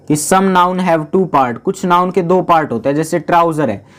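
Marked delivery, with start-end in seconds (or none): 0.2-1.6 slow reading of the rule. Shown as a demonstration. Teacher slowly reads rule fourteen to the class. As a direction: slowly read out rule, word by word. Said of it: "क्या बोल रहे हैं".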